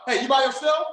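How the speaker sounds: eager "are you by yourself", rising; hyped-up caller. Shown as a demonstration. Coach showing students an excited phone opener. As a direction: sound like you've got big news. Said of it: "I hit him with the".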